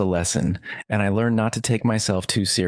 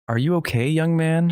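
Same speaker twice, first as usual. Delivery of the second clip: put-on kindly old lady; 8 semitones higher than usual. A narrator's reading. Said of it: "she asked kindly".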